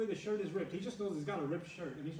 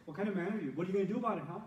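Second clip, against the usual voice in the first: mock goading; 2 semitones higher, 4 dB louder, much faster than usual. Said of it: "my acting performance".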